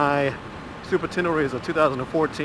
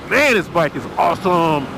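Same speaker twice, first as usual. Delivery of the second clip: excited; 3 dB louder than usual. Real, not acted. Rider delighted after a whoop.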